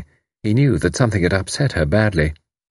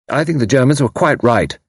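higher, emphatic declaration; fierce young defiance; 5 semitones higher than usual. Acted. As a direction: state it defiantly. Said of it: "fierce young voice".

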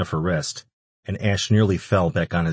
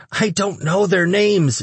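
very high, slow creature voice; frightened little demon; 13 semitones higher, 4 dB louder, slower than usual. A narrator's reading. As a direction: squeak it out in fear. Cowering demon answers its captor.

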